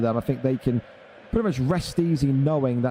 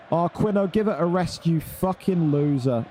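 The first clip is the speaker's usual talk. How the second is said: raised, fed-up yell at a whiner; exasperated shout; 3 semitones higher than usual. Real, not acted. Ranting at a chat complainer.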